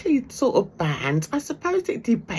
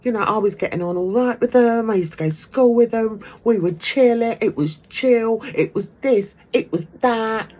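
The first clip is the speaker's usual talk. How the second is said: mimicking Negs; 4 semitones higher, 3 dB louder than usual. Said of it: "he was like".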